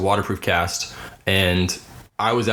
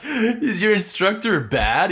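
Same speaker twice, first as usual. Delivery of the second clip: mock-serious question; 10 semitones higher, slower than usual. Teacher asking, mock-serious.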